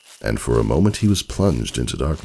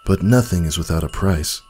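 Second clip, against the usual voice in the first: a lightly voiced old stallion, raised and resolute; old stallion, firm; 4 semitones higher than usual. Old stallion answers the pool.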